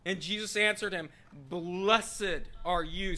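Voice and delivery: emphatic, measured proclamation of scripture; forceful scripture reading. Acted. Preacher proclaiming Peter's confession and Jesus' answer, forceful scripture reading. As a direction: stretch and punch the key words.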